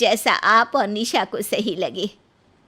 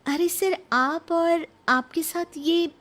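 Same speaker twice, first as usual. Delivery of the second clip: much higher, slow puzzled question; surprised Nisha; 9 semitones higher than usual. Acted. Nisha finding her boss at home, surprised. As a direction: caught off guard by the boss.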